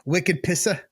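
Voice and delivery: a hint of Boston slang, Wicked Pissa with dropped r; lightly mock Boston, Pissa for wicked; Boston accent. Host tosses out Boston slang, light Boston accent. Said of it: "that accent comes out".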